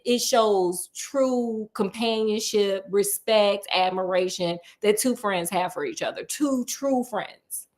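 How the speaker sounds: slow, sincere emphasis; heartfelt. Real, not acted. Urging viewers to read it, slow and heartfelt. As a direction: savor each word, slowly.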